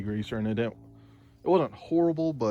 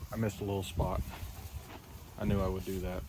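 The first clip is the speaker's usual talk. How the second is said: whisper; 3 semitones lower, 6 dB quieter than usual. Real, not acted. Muttering after missing a spot.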